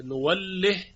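نوله ending on a silent ha; silent final ha. Shown as a demonstration. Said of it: "شعبه به اسکان ها خونده".

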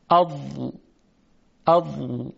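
اض with the ض pressed from the tongue's side against the upper molars; slow tajwid sounding of اض; Dad demo. Shown as a demonstration. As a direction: say اض twice, the ض firm and held.

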